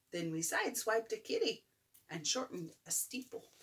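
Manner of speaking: gentle storybook reading; bedtime story. A narrator's reading. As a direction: read it like a bedtime book. Reads picture book aloud.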